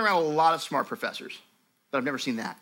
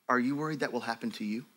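gentle sincere question; 4 semitones lower, 5 dB quieter than usual. Retold or imitated. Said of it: "very kind and godly".

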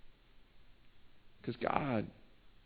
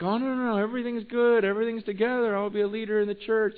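higher, eager pretend-good churchgoer; mock fake reassurance; 5 semitones higher, faster than usual. Preacher mimicking a pretender at church, higher and eager. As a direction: sell the fake "everything's fine" act. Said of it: "acting like".

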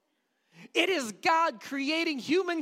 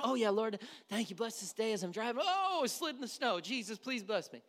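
offhand prayer; 3 dB quieter than usual. Retold or imitated. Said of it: "kind of driving around".

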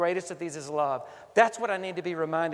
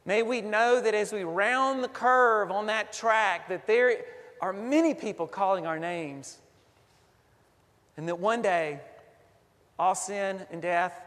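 prayer. Acted. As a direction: lead the congregation in earnest prayer. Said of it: "Let us pray".

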